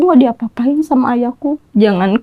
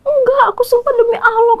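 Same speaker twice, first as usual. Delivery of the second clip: retold tearful oath; 12 semitones higher than usual. Daughter swears in tears, retold.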